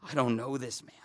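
low, softened disowning; subdued, casual denial; nonchalant denial. Acted. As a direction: disown him quietly, offhand. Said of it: "That nonchalant".

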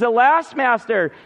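imitating someone crying out in alarm; mild mock outcry. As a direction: lightly act out a distressed cry. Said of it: "and he cries".

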